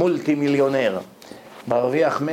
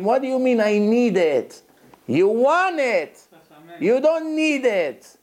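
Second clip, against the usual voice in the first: slow, emphatic correction; correcting his son; 6 semitones higher, much slower than usual. Retold or imitated. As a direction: spell it out for the boy. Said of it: "אני אומר לבן שלי".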